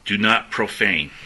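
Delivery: slow, with "not" and "profane" hit hard; preacher repeating the warning; emphasis on profane. Shown as a demonstration. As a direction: drive home the word profane. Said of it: "emphasizing the word profane".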